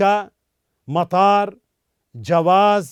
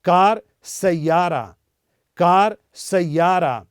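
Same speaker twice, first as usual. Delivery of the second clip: सैयारा drawn out slowly, clear long आ; slow model pronunciation; slower than usual. Shown as a demonstration. Teacher slowly modelling सैयारा for students. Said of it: "हमारी तरह pronounce करें".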